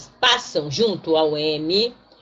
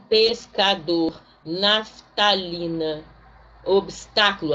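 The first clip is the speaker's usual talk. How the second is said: slow syllable demo; slower than usual. Shown as a demonstration. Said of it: "em sílabas diferentes".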